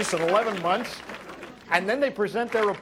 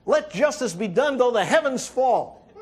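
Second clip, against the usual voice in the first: movie hero speech; 6 semitones higher, 3 dB louder than usual. Retold or imitated. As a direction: ham up the film's big heroic line. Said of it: "At the top of the staircase, he says".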